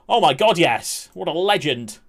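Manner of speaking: loud delighted oh my God; excited reaction. Real, not acted. Streamer answers chat about Herman, delighted loud burst.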